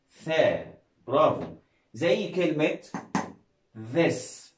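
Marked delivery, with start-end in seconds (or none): 0.1-0.7 ثا with an airy, unbuzzed th; voiceless th. Shown as a demonstration. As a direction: start ثا on a voiceless th. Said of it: "بيتنطق يا إما ذا يا إما".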